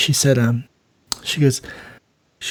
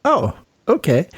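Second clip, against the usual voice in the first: surprised; 5 semitones higher than usual. Retold or imitated. Realizes she's the chief.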